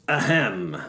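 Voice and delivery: an orator's deliberate "ahem"; throat-clearing. A narrator's reading. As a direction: clear your throat to address the room. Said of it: "the practiced orator".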